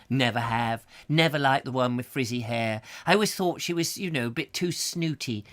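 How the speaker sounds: a hint of a snooty old lady; lightly voiced prim gossip; snobbish neighbour. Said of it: "I've got to get out of character".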